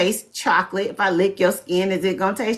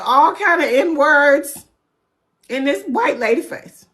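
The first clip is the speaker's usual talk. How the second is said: mock news outrage; 4 semitones higher than usual. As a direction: ham up the shocked news report. Mocking news outrage if white.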